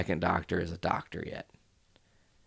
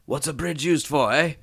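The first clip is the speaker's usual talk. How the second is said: sassy retort, pitched up and getting louder; 8 semitones higher, 5 dB louder than usual. Retold or imitated. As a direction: quote it with cheek, punching the end. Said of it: "he's just so sassy".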